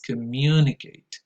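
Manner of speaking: communicate with the second syllable stressed. Shown as a demonstration. Teaching English teachers how to pronounce it, communicate stressed on MU. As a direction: draw out communicate, leaning on MU. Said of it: "the right stress is".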